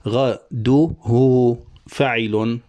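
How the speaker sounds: غده drawn very slowly with the lengthened final u; slow scansion, vowel lengthened; scanning syllables. Shown as a demonstration. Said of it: "نشبع الضمة واوا ساكنة".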